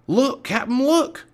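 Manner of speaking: high, loud excited henchman cry; gleeful shriek. A narrator's reading. Pinky showing off the medallion, gleeful shriek. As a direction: shriek your find down with glee. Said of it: "A gleeful shriek pierced the air".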